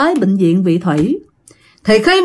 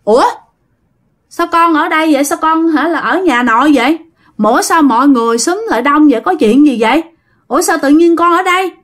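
mildly dazed, higher-pitched questions; confused, asking in a raised voice; bewildered; 4 semitones higher than usual. Acted. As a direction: act out someone puzzled at where they are. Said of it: "Ảnh ngơ ngác".

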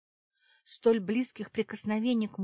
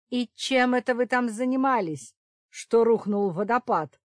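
loud, high laughing shout; 5 semitones higher, 9 dB louder than usual. A narrator's reading. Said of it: "выкрикнул он".

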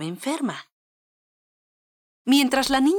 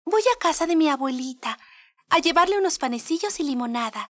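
niña inocente; 6 semitones higher than usual. Acted. La niña contesta al lobo.

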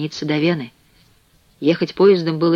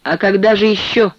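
higher, mildly oily question; unctuous; 4 semitones higher, 4 dB louder than usual. A narrator's reading. Bass cellmate needles the chicken man, unctuous. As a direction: ask with feigned innocence. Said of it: "елейно спросил бас".

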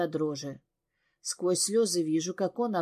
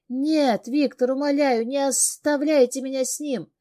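higher, louder tearful begging; crying plea; 6 semitones higher, 4 dB louder than usual. Acted. Heroine cries, begging Viktor not to leave her with him. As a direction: cry out not to be left. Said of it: "Плачу".

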